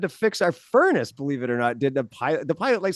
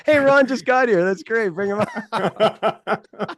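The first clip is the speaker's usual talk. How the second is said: mock calling out; 5 semitones higher, much slower than usual. Imagined call from the family, joking.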